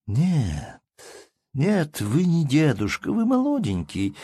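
frisky, rising to a high teasing pitch; playful. Acted. Baroness teases the old count, playful and frisky. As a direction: tease the old man briskly. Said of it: "отвечала резво баронесса".

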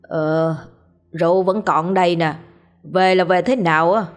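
put-on slurred drunk voice; lightly slurred drunkard; drunken slur. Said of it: "giọng lè nhè".

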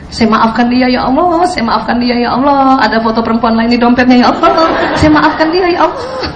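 a lightly voiced, pleading prayer demo; gentle mock prayer, ending on a laugh. Shown as a demonstration. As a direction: show them how to pray it, humbly. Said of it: "Ibu harus itu".

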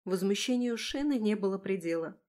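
ordinary delivery

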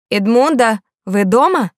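loud call through a door. Acted. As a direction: call out to someone inside.

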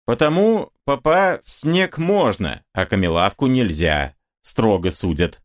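lecturing bystander, mildly voiced; a hint of a know-all preaching a rule; instructive. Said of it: "назидательно говорит кто-то". (кто-то в толпе назидательно поучает)

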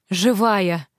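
glad exclamation; joyful cry. Acted. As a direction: cry out with relief. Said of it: "радостно вскрикнула она".

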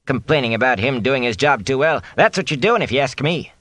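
high, indignant cook voice; a cook telling off her master, high and sharp; scolding cook. Acted. Cook scolding innkeeper about complaints, high and indignant.

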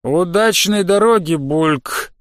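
bubbly, gurgling farewell; gurgling slug voice. Acted. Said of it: "пробулькал Слизенбург".

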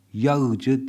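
Yağcı said slowly with the ğ pronounced; yağcı with sounded ğ; slow wrong ğ. Shown as a demonstration. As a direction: stress the ğ in Yağcı.

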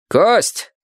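high call across the yard; shouted call. A narrator's reading. Man on roof calls a neighbor, high shout. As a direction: yell down into the courtyard. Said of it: "крикнул один из мужчин".

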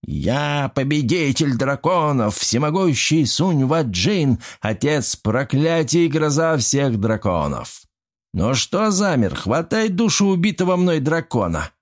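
a touch of a pompous little gremlin; boastful shout. Acted. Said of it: "громко закричал".

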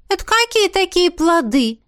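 high, loud surprised princess. A narrator's reading. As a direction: ask in startled disbelief. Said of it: "удивилась Ави".

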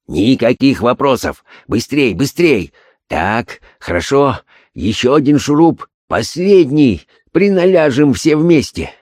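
high, rising urgent orders; urgent excitement. Acted. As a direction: drive the work on, climbing. Holmes urging workers at coffin. (нарастающее возбуждение)

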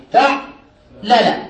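فعلل stretched out very slowly, syllable by syllable; drawn-out pattern. Shown as a demonstration. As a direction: draw out فعلل for the students. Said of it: "فعلل، وجه واحد".

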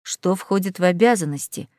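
deep, rumbling demon; low demon voice. Acted. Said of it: "Низкий голос Беля".

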